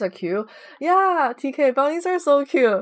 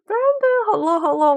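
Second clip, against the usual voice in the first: high excited gasp then hello; light up when Brandon arrives; excited greeting; 10 semitones higher, 4 dB louder than usual. Real, not acted. Streamer greets Brandon in chat, excited high gasp.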